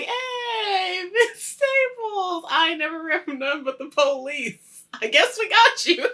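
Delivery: high, loud mock greeting; excited guard. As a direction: call out like a delighted guard. Acts out guard greeting a rapper.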